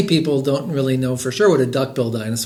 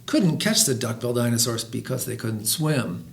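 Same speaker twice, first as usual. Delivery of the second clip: lively, rhythmic read-aloud; children's story reading. A narrator's reading. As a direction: read a rhyming picture book to listeners. Reads a picture book aloud.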